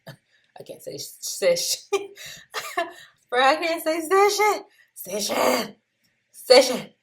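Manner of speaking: high-pitched, giggly attempts at the word; real laughing. Real, not acted. Trader tripping over the word session, laughing. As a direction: crack up at your own tongue-tie. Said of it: "I'm laughing 'cause sometimes".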